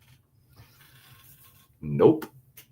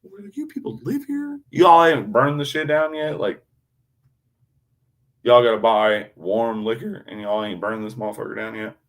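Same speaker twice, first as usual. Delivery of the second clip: mock disbelief; 3 semitones higher, 4 dB louder than usual. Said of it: "And we're like".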